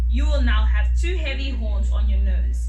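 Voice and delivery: furious loud roar. Acted. Lion furious at Rhino for pushing in line. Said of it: "Lion was furious".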